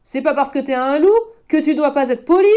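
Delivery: scolding. Acted. Boy scolds the wolf for rudeness, high and loud. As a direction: give him a lesson. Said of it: "gronde le garçon".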